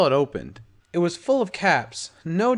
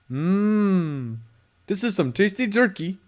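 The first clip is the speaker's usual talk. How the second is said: impressed; 4 semitones higher, slower than usual. Acted. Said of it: "he said, impressed".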